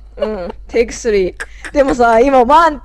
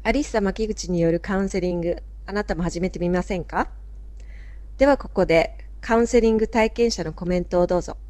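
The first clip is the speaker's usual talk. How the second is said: made-up voice; 6 dB quieter than usual. Shown as a demonstration. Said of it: "今声作った。".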